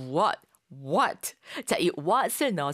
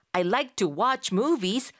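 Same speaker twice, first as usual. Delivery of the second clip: slow model; 4 semitones higher, much slower than usual. Shown as a demonstration. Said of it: "라고도 말할 수가 있습니다".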